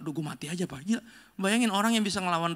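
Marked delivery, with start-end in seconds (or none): 0.0-0.8 soft, defeated sigh of a line; mock despair. Samson complaining about Delilah's sulking, mock despair. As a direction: give up dramatically but quietly. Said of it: "dia kayak bilang".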